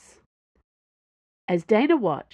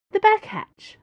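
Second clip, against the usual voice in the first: eager; 6 dB louder than usual. Acted. Planchet eager.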